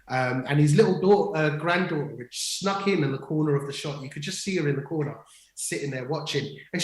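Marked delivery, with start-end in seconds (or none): none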